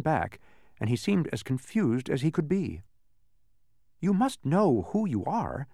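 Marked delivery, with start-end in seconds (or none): 4.0-5.7 slow, higher-pitched impatient insistence. A narrator's reading. Milo to the confused man, impatient. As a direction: press the point with mounting impatience. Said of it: "said Milo impatiently".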